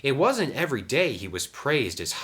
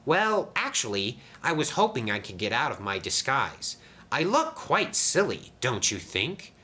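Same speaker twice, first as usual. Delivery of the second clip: higher, mildly bashful engine; disappointed Dart; 5 semitones higher than usual. Acted. Dart asks to lose the disguise, mildly sad. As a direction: confess it hesitantly.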